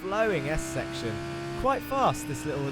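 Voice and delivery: brisk, lively onboard lap commentary; live play-by-play. Real, not acted. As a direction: talk viewers briskly round the circuit.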